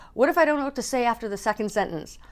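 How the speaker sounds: fast, whispered worry; anxious whisper. Retold or imitated. Whispering her fear of forgetting lines before speaking. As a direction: rush it out under the breath, panicky.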